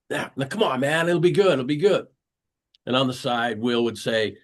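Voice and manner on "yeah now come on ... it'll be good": imitated upbeat coaxing, rising higher; lightly acted peer-pressure reassurance; coaxing friend. Friends urging Will Smith to skydive, coaxing.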